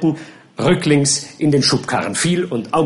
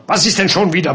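louder, higher impatient roar; roaring captain; 5 semitones higher, 4 dB louder, faster than usual. Acted. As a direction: snap at the gardener, fed up. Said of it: "brüllte der Captain". (wütend gebrüllt)

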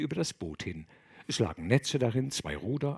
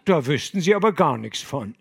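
laughing, louder fisherman; laughing denial; 3 semitones higher, 6 dB louder than usual. Acted. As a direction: laugh off any knowledge.

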